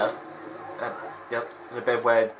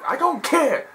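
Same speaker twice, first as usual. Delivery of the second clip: high, loud, slow telling-off; hammed-up shouting referee; 13 semitones higher, 6 dB louder, slower than usual. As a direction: bellow like a furious referee. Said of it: "And John was like".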